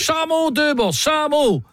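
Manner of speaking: spelled-out mnemonic. Shown as a demonstration. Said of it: "c'est un mémotechnique".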